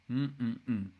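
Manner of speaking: three savouring mm sounds; appreciative humming. Real, not acted. Streamer admiring the car's rear, appreciative mm-mm-mm. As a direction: hum your approval in short pulses.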